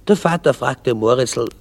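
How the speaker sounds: usual speaking voice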